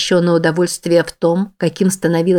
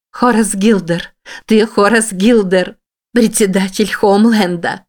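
desperate cry; 3 semitones higher than usual. Acted. Forced to repeat, terrified.

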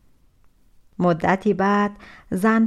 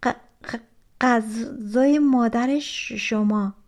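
scared stammer; much slower than usual. Acted. Scared girl answers the giant.

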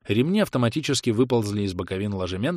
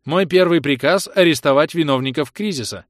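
an AI broadcasts to the whole colony; machine announcement; 6 semitones higher, 7 dB louder than usual. Acted. The colony AI announces to all colonists, loud and machine-even. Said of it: "Ровный бесполый голос машины".

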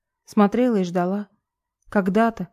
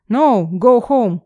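громко и медленно, с английским акцентом; отрежь медленно и громко по-английски; строгий отказ; 2 semitones higher, 6 dB louder, much slower than usual. A narrator's reading. Охранник отгоняет героиню по-английски. (охранник громко и медленно отказывает)

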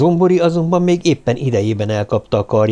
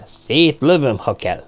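insistent assurance; 3 semitones higher, slower than usual. A narrator's reading. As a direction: assure them you really would. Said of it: "bizonygatta Karahan".

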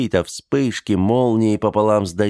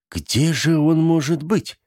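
high, slow wondering ask; puzzled question; 8 semitones higher than usual. Acted. The townsfolk ask one another, high and slow, puzzled. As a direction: wonder aloud where he went. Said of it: "удивлённо спрашивали все".

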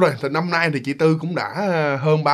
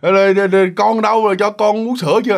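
lightly voiced drunk uncle, slurred; drunk slurring uncle; 3 semitones higher than usual. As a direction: slur it like a tipsy uncle. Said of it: "giọng lè nhè rồi".

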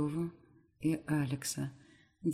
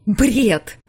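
sharp, much louder high shout; yelled back; 6 semitones higher, 15 dB louder than usual. Acted. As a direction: scream back at him. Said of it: "ору в ответ".

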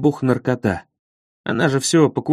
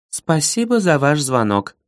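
even, toneless operator voice; robot voice. Acted. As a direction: recite it like a machine. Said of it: "ровным голосом произнесла эта Алина".

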